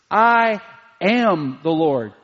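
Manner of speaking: I held and stressed, am the Lord slowed. Shown as a demonstration. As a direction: lean hard on the word I then slow down. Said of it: "that I is emphatic".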